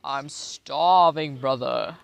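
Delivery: slow loud begging; starving plea. Pretend. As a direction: wail that you're starving.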